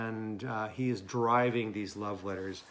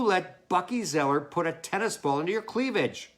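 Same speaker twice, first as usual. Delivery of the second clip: scolding letter; 4 semitones higher, 4 dB louder than usual. Acted.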